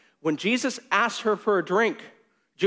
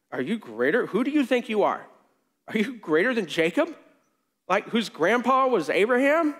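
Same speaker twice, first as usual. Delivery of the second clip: mocking, incredulous taunt rising higher; sarcastic woman; 4 semitones higher than usual. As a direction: needle him: who do you think you are. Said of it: "You can hear the sarcasm in her voice".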